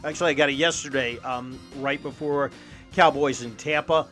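upbeat radio ad read. Acted. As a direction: sell it like a sponsor spot. Host reads sponsor ad.

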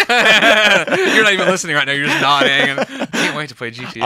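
loud laughing tease. Real, not acted. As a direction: laugh through the jab at him. Teasing cohost with laugh.

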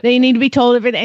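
put-on a light Southern grandma accent. Grandma's advice on flattering husbands, Southern accent. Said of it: "I could actually do it in the accent".

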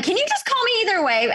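pleading question. Retold or imitated. Asking the clinic to call.

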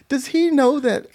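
high and drawn out; puzzled, drag it out; slow wondering. Retold or imitated.

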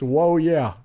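Macho Man catchphrase. Retold or imitated. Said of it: "from the great Macho Man".

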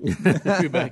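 "Quebec" said as "Kyoo-bec"; Southern "Quebec". Retold or imitated. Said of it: "And he called it Quebec".

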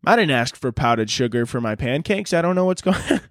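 lightly acted bewilderment, pitch jumping up; confused Canadian. Canadian handed coke instead of powdered sugar, mildly confused. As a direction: play a polite innocent, baffled. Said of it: "Canada's just confused".

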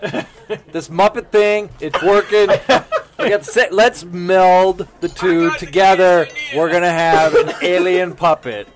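slow, emphatic imagined producer pitch; hammed-up selling of a big idea; mock Hollywood pitchman. Hollywood guy pitching a puppet show, mock pitchman. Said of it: "guys like".

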